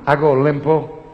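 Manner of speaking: slow, high, loud Roman "A Golem po'"; Roman dialect. Shown as a demonstration. Comedian shows the blunt Roman version. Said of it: "in romano".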